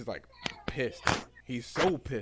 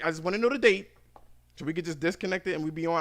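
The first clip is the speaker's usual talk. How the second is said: getting loud; 4 semitones higher, 3 dB louder, faster than usual. Retold or imitated. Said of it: "Now I'm getting loud".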